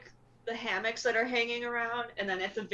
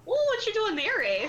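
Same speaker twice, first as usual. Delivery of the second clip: higher-pitched, folksy character voice; louder, high-pitched questioning role voice; curious newcomer; 9 semitones higher, 5 dB louder than usual. Acted. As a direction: pipe up in surprise at finding someone. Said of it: "and they say".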